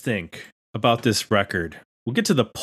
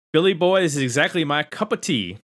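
lightly put-on Southern accent, higher pitched; 4 semitones higher than usual. Host reading a patron's comment for laughs, mild Southern accent. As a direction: read it with a hint of Southern twang. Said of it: "he said it with a Southern accent".

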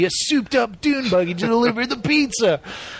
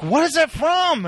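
higher, slow, baffled; puzzled friend; 8 semitones higher than usual. Retold or imitated. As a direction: ask it slowly, really stumped. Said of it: "And he's like".

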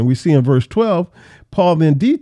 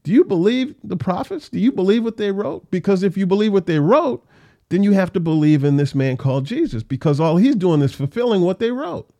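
smooth, higher persuasive challenge to the king; savvy and smooth; 5 semitones higher than usual. Acted. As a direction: coax him step by step into admitting it. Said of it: "Paul is so savvy and so smooth".

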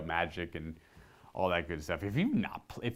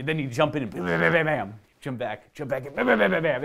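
mock sword combo; 6 semitones higher, 7 dB louder than usual. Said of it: "he would just do".

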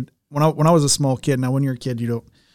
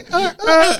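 much higher hammed-up sobbing gasps; mock sobbing; 4 dB louder than usual. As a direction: fake a child's heartbroken sobs. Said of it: "my heart went".

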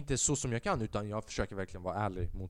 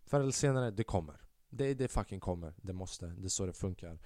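sincere; 3 semitones lower, 4 dB quieter than usual. Real, not acted. Sincere advice to viewers.

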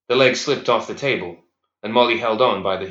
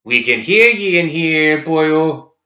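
jeering madman; 7 semitones higher, 7 dB louder, slower than usual. Acted. Inmate jeering at orderlies.

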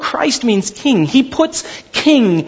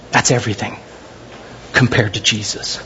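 low solemn; 10 semitones lower, 3 dB quieter than usual. Acted.

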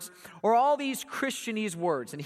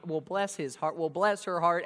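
mock sweet Southern; 3 semitones lower than usual. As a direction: coo it before the insult.

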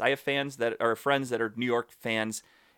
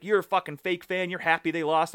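higher-pitched mock accusation; pissed-off fan; 5 semitones higher than usual. Retelling an angry fan calling him fake, mildly pissed-off. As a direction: imitate an irate fan, pitch raised, only mildly heated. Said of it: "Oh, he was pissed".

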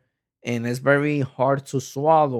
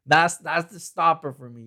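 ordinary delivery

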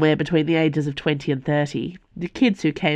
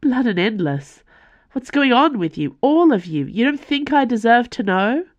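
much higher and louder, furious and hurt; angry outburst; 9 semitones higher, 4 dB louder than usual. A narrator's reading. Calderon demanding to know what's going on, furious outburst. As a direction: let the anger crack through every question. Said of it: "his voice trembling with anger".

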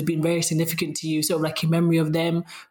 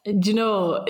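Sheffield accent; 3 semitones higher, slower than usual. Real, not acted. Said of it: "my Sheffield accent just came out then".

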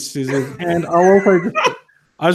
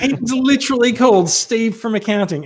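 laughing; 8 semitones higher than usual. Real, not acted. Laughing disbelief at toy name.

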